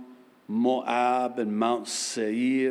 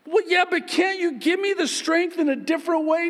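much higher, shouted whiny bargaining; bargaining believer shout; 3 dB louder, faster than usual. Acted. Believer begging God for another way, high shout. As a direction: yell a childish plea for a shortcut.

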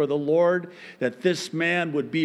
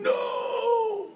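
a sudden very high wail of no; high anguished cry of no. Acted. Preacher voicing the grieved Spirit, high anguished cry.

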